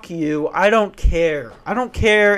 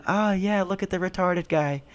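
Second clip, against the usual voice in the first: snide aside; 3 semitones higher, 7 dB quieter than usual. Retold or imitated. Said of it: "They're going".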